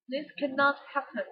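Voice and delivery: "cannot" stressed firmly; disbelieving weight on "cannot"; stressed with emotion. Shown as a demonstration. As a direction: punch the word "cannot". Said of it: "put the stress on the words".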